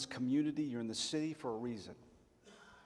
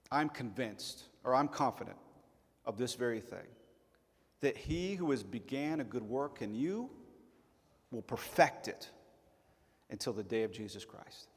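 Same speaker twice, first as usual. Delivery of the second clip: scripture reading. Shown as a demonstration. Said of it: "Philippians chapter one, verse six".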